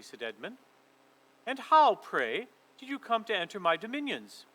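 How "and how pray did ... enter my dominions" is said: imperious queen. Acted. Queen demands answer.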